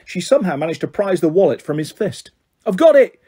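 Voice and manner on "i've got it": loud, high cry of victory; high triumphant yell; triumphant shout. A narrator's reading. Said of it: "she shouted in triumph".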